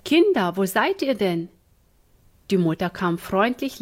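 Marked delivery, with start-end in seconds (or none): 0.0-1.5 calling out. Acted. Mother calling through the house.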